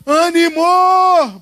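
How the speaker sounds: high, loud, long-drawn rallying cry; mimicked drawn-out yell; imitated teacher's shout. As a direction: holler it like the teacher rousing a class. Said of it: "ele gritava".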